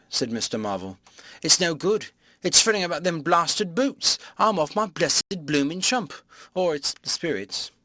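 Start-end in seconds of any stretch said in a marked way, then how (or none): 1.4-7.7 higher, rough Cockney tramp in a fret; a rattled vagabond moaning to himself; fretting tramp. Acted. Tramp Marvel fretting aloud.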